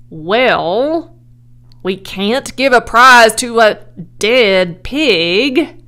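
loud, projected ruling; loudspeaker announcer. A narrator's reading. Loudspeaker refuses the prize, loud announcer's ruling. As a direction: declare it to the whole fairground. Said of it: "said the loudspeaker".

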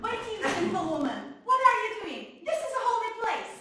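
loud shouted rebuke; retold scream. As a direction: scream it at the sinful woman. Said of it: "and I scream".

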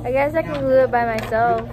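touch of self-pity; sad-sounding. Real, not acted. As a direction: say it a little forlornly, like a guilt trip. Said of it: "You can't make it sound that sad".

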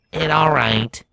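gentle resignation; resigned rover. A narrator's reading. Rover consoles Starlight.

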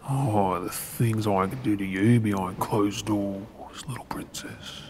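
whispered, dropping to almost nothing; a lecherous private whisper, fading away; menacing whisper. Acted. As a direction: breathe it like a dark secret. Alone, lustful threat after she leaves.

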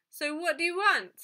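grumpy demand. A narrator's reading. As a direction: demand it impatiently, pushing up in pitch and volume. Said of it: "He sounded grumpy".

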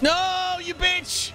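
raging gamer. Real, not acted. Gamer dying to boss.

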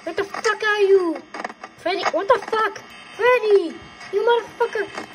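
rising yell; frustrated calling out. Real, not acted. Calling out for missing character.

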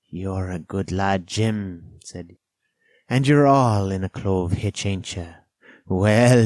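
lightly voiced castaway with loud bursts; Ben Gunn, assured castaway. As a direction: reassure him, leaning on key words.

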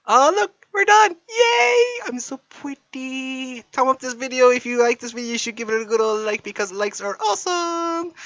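put-on very high, loud girly falsetto squeal. Boyfriend voicing girlfriend's finale as a squealing girly falsetto. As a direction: squeal like a giddy girl showing off her makeup.

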